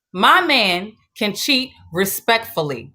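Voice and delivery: slow, spaced-out "My man can cheat respectfully"; pointed delivery. Real, not acted. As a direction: announce the topic, leaning on "respectfully". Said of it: "I gotta say it like that".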